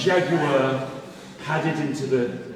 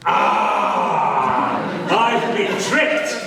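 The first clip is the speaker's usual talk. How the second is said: dismayed jaguar; much slower than usual. Acted.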